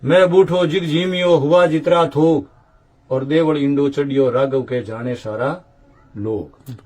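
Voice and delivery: measured, rhythmic recital of devotional couplets; verse recitation. Acted. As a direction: recite the old verses line by line, lifted and metrical. Recites verses about Indra.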